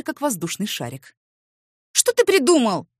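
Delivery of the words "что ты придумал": high, loud outrage; indignant. Acted. Woman indignant at his jibe, high and loud. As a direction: bristle at the insult. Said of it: "возмутилась".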